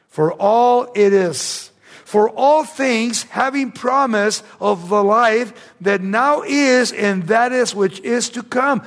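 slow, deliberate Bible reading from the pulpit; slow scripture reading. Acted. Preacher reading the verse to his congregation, slow and deliberate. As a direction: lean on each word of the verse.

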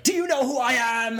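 high, loud entitled demand; loud, high spoiled rich brat; entitled outrage. Retold or imitated. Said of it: "you're like".

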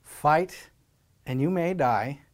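rally them until it bursts out; William Wallace speech. Retold or imitated. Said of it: "he says".

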